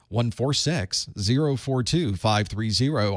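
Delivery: slow infomercial number read; mock ad read. Host joking that operators are standing by, mock infomercial. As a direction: read it like a late-night TV ad. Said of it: "Operators are standing by".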